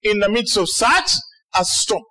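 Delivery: lightly voiced over-apologetic Jesus; mock apology. Jesus to the disciples after sleeping, mildly hammed-up apology. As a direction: drag out "so sorry" in light parody of contrition. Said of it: "you'd expect that Jesus' next response".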